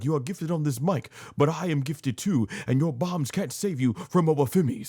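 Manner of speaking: half-attempted accent, defiant boast; attempted Obafemi accent. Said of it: "I can't do the accent".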